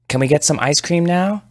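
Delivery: put-on high eager little boy; a kid tugging for ice cream; excited child; child's voice.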